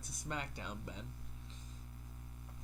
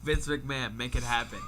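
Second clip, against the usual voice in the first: joking call-out; 5 dB louder than usual. Pretend. Calling out to boss jokingly.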